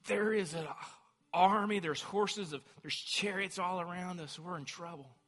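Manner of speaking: mild panic. Retold or imitated. Servant reporting the army to Elisha, mildly panicked. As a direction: retell the servant's fright lightly. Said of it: "And he's panicked".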